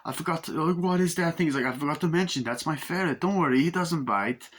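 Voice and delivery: calm her down about the pet; a mock soothing voice; soothing man. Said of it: "It's like".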